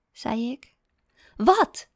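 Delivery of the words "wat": a sharp, loud, much higher "Wat?"; snapped. A narrator's reading. Wife snapping at her husband in the kitchen, sharp and loud. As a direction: bite back at him, irritated. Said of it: "snauwde ze".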